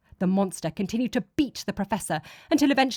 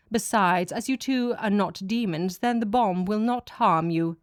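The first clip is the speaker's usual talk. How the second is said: lightly voiced god, cool and matter-of-fact; a hint of a detached deity brushing off their fear; god's voice. God reassures them.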